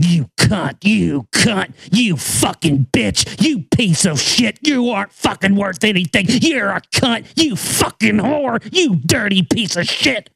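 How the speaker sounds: a mild mock of a cruel director hissing insults; retold berating. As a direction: spit each insult out slowly, like a director tormenting his actress. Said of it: "That's literally how she said it to me".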